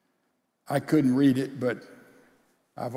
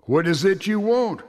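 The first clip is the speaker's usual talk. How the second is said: higher, sharp impatient snap; snapped; 5 semitones higher, 4 dB louder than usual. Acted. Father interrupted at his paper by his son, impatient snap. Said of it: "I snapped".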